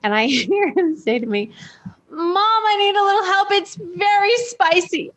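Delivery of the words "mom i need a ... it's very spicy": put-on child voice. Mother voicing her little son.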